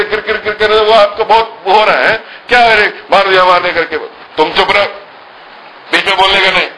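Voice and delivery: hint of an indignant mother telling off the father; mild mock scolding mother.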